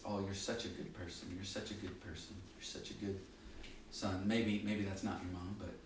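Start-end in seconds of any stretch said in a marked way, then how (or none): 0.0-4.3 softer, cooing mom praise; lightly imitating a fond mother; gentle hint of a doting mom. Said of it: "Our moms are always there to say".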